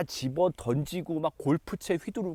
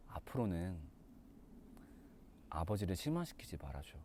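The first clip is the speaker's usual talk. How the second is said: much softer and lower, like speaking through the pain; weak, hurt murmur; 5 semitones lower, 10 dB quieter than usual. Acted. Bloodied elder brother quietly asks his younger brother one favour, weak and hurt. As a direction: barely get the words out, injured.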